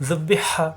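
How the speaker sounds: জুব্বি হা with হা squeezed from the throat; pressed final H. Shown as a demonstration. Teacher models the word, জুব্বি হা with pressed H. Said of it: "হা চাপ দিয়ে".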